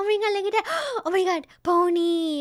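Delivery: high, loud, eager puppy voice, pony drawn out. Showing how a well-behaved puppy sounds: put-on excited puppy voice. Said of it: "getting really excited".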